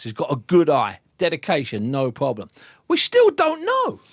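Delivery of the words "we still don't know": "still don't know" drawn out high and slow; slow emphasis. Real, not acted. Pundit driving home his doubt about Moses, slow and emphatic. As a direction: lean hard and slowly on "still don't know". Returns to the catchphrase as verdict.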